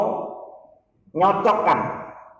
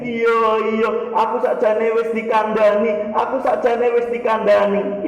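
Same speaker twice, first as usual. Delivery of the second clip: jinn voice; 6 semitones higher than usual. Retold or imitated. Jinn speaking through patient.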